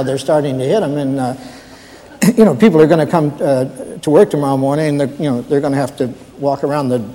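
hesitant, stammering night watchman; lightly voiced, deferential rookie guard; nervous new guard. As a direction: stumble politely through an awkward report to the boss. Plays a new guard phoning his boss.

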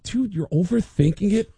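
calm a nervous friend as Lars; lightly voiced Lars, casual; Lars reassuring. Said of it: "he said".

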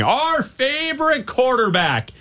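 oversell it with heavy sarcasm; sarcastic. Shown as a demonstration. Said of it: "with the maximum amount of sarcasm".

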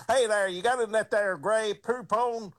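high, hollering hillbilly ask; mock redneck holler; redneck in a truck. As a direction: call out from the truck window like a country boy. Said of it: "let's get an old beat-up truck".

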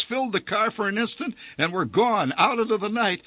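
ordinary delivery

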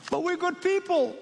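high, anxious begging; pleading foolish ones. Acted.

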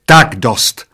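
loud, cutting them short; mildly shrieked. A narrator's reading. Waitress stopping the old men's antics, mild shriek. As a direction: put a stop to it loudly. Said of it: "zaječela číšnice".

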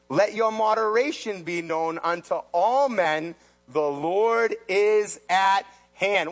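slow, solemn scripture read. Acted. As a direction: read it like holy writ. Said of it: "And then he says".

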